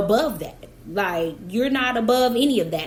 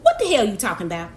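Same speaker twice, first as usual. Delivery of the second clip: incredulous; faster than usual. Retold or imitated. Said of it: "And I'm like".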